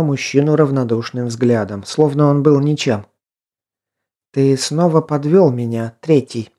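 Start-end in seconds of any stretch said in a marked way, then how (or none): 4.3-6.5 cold, contemptuous, controlled; icy voice. Acted. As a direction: freeze him out with each word. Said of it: "ледяным голосом произнесла она".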